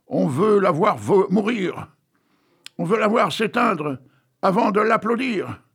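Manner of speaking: mock crowd yelling at the stage; crowd shouting. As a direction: bawl it like a rowdy crowd. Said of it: "les voilà qui crient".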